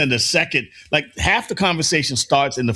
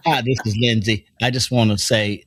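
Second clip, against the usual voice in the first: mock caller voice; 8 semitones lower than usual. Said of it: "Give it to him".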